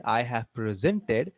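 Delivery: slowly, "presented" said pri-ZEN-ted; stress on second syllable. Shown as a demonstration. Teacher giving a verb example, second-syllable stress on "presented". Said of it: "the stress will be on the second part".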